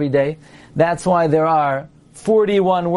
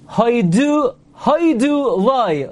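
"haidu loi" with DU hit right against LOI, higher; "haidu loi", two stresses crowded together, drawn out slowly; stress on last syllable; 4 semitones higher, much slower than usual. Shown as a demonstration. Teacher showing students the clashing stresses, stressed "haidu loi". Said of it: "So you can't say haidu loi".

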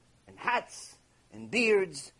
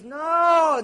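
high, loud, acted cry of refusal; emphatic refusal; 7 semitones higher, 6 dB louder than usual. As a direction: cry it out, overruling every suggestion. Voicing God's emphatic refusal.

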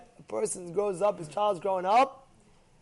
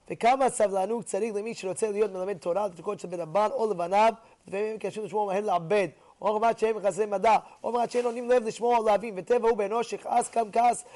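rapid text recitation; much faster than usual. Acted. Teacher reading the source, rattling it off quickly. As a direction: rattle off the Hebrew quickly and evenly.

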